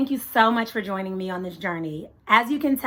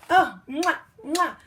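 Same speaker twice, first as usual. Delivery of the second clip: between kisses; 7 semitones higher, 5 dB louder, slower than usual. Real, not acted. Kissing the book.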